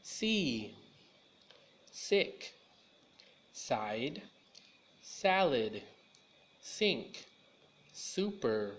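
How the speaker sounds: each of "See", "sick", "side" opened on a clear hissed "s"; slow, separate words, starting each on a sharp "s"; "salad", "sink", "super" each begun with a clean hissing "s"; crisp s sound. Shown as a demonstration. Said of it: "Now you say it with me".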